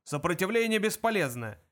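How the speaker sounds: guard's shout. A narrator's reading. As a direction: shout it like a drilled line. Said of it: "крики охранника".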